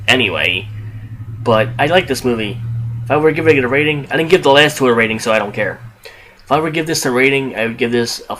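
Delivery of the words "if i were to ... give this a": rapid-fire casual review; hurried, offhand podcast chatter; talking fast. Real, not acted. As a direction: rattle it off quickly. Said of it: "I know I'm talking fast".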